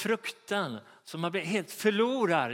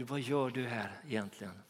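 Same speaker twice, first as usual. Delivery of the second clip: softer, lower gentle asking; gentle question; 5 semitones lower, 6 dB quieter than usual. Retold or imitated. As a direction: ask it low and gently. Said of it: "två gånger så frågar Gud".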